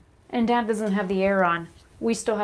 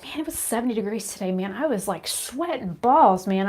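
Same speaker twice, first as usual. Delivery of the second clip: hammed-up Washington complainer; mocking whiny locals. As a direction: parody someone moaning about mild heat. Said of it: "They're like".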